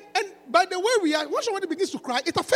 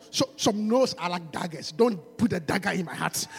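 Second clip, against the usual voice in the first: low, soft, mock seductive lines; smooth-talking rapper; 12 semitones lower, 3 dB quieter, slower than usual.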